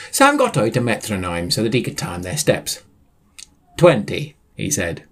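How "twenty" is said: high bright call of a number; high excited counting. Acted. Sam counting steps, high.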